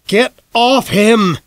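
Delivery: high, slow, desperate shout. A narrator's reading. Father shouting at the doctor to get off his son, high and loud. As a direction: yell it at the man pinning his boy. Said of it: "Dad shouted".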